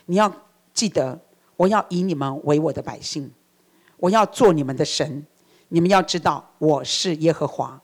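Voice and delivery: a hint of God addressing his people, pitched low; God speaking. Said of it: "神再一次说".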